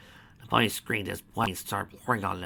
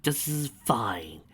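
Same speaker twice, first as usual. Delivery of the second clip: strained fake calm; much slower than usual.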